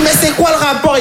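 high, relieved granny voice; delighted old lady. Retold or imitated. Yvonne hears the joke and is delighted, high granny voice. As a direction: chirp it with relief.

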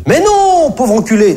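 psy imité, voix très aiguë. Retold or imitated. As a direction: singer le psy d'une voix perchée. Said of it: "mon psy m'a dit". (psy imité d'une voix très aiguë)

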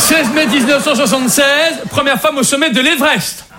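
measured, declarative history-report reading; reading out an exposé. Acted. Comedian presents women in history to the group, reading aloud. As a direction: read it out like a prepared presentation. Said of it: "on m'a demandé de lire un exposé".

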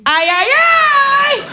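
hammed-up North African accent; Constantine accent. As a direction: play a saucy hostess with a Constantine accent. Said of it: "avec l'accent de Constantine".

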